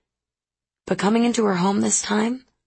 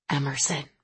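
whispered; 5 semitones lower, 6 dB quieter than usual. A narrator's reading. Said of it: "Jake whispered to me".

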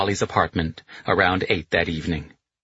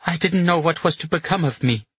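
tearful relief; 10 semitones higher than usual. A narrator's reading. Dolly tearful, drunk relief.

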